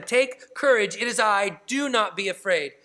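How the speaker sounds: emphatic reassurance. Acted. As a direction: speak courage into frightened people. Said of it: "Christ himself speaks courage to them".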